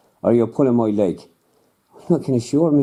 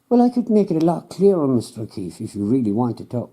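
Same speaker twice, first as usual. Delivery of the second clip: patient, condescending scientist, pitched a touch higher; lightly voiced know-it-all scientist; smug scientist; 3 semitones higher than usual. Scientist offers clearer view.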